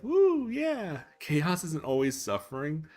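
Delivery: high, loud whoop of joy; excited cheer. Retold or imitated. Streamer imitating his own gleeful cheer about chaos, loud and high. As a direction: cheer it like a thrill-seeker.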